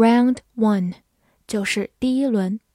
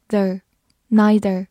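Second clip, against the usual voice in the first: slow syllables; much slower than usual. Shown as a demonstration. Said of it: "N E I 发nei".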